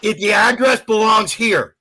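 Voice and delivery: angry ranting shout; loud sharp voice. Real, not acted. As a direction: bark it out in anger. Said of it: "Why are you so angry?".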